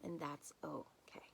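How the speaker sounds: very slow, soft whisper of comfort; whispered reassurance. Real, not acted. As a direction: breathe it out gently and slowly. Closing invitation to accept emotions.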